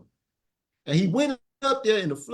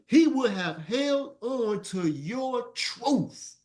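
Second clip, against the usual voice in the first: booming voice of God; 5 semitones higher, much slower than usual. Acted. Voicing Allah in the story.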